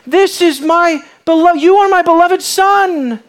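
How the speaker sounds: a booming heavenly declaration; loud declaration. Acted. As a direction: ring it out like God's voice announcing his son. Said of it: "a voice came and declared".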